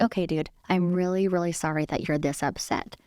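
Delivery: gently sincere, softening at the end; kind voice. Retold or imitated. Agent apologizing to an upset colleague like a little kid, kind voice. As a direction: soothe an upset person kindly. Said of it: "kind voice, like".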